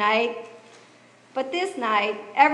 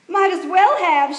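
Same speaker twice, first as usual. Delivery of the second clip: higher and louder, out of breath; gasping; 6 semitones higher, 5 dB louder than usual. A narrator's reading. Miriam winded from running, telling Eli, gasping. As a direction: blurt it between gasps. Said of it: "she gasped".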